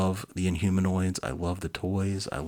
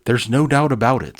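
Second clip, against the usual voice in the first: emphatic doctor; 5 semitones higher, 12 dB louder than usual. Acted. Doctor Bright declares.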